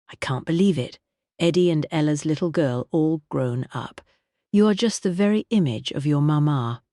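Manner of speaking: a warm, grand singer's voice; Vivian voice. Acted. Vivian admires Kitty.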